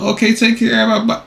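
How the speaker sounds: lightly voiced polite goodbye; mimicking the caller. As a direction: imitate the sweet sign-off. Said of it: "You hear that junk?".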